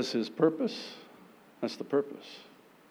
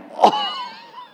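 high shrieking laugh; 6 dB louder than usual. Real, not acted. After the bam.

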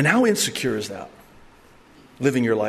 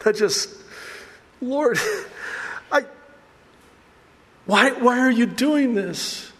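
amazed; 11 semitones higher than usual. Retold or imitated. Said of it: "You're like".

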